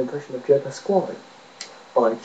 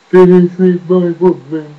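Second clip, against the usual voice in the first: a rock singer; 4 semitones higher, 7 dB louder, slower than usual. Retold or imitated. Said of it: "a rock singer".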